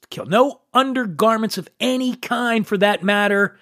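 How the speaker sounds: normal talking voice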